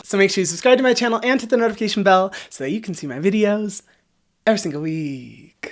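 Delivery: talking with a sore bitten tongue; lisping after biting tongue. Pretend. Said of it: "gonna have to talk like this".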